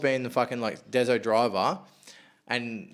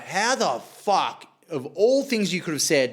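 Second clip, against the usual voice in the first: mildly incredulous, drawn-out question; retold disbelief; 3 semitones higher, slower than usual. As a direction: replay being baffled, stretching the opening. Retold disbelief at slot win.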